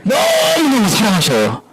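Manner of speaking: put-on high, drawn-out cry of joy to the children; excited emphasis. Preacher tells the children God loves them, high and excited. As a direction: stretch 너무너무 out big and bright.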